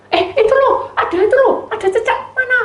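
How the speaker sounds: high, bright mock child voice; tricky little sister. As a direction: distract him with a fake lizard.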